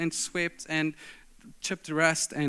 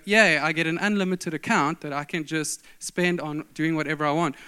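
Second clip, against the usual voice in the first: mock gleeful yay. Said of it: "The right response is not to go".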